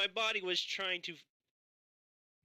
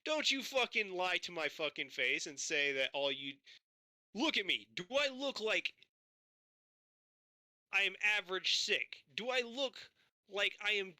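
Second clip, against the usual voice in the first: retold furious rant. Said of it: "I'm like".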